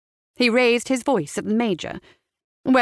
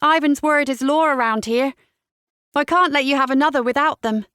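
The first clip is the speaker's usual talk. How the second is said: high, lilting sing-song; 6 semitones higher, 4 dB louder than usual. A narrator's reading. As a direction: tease him in a singsong lilt. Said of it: "Julia replied in a sing-song voice".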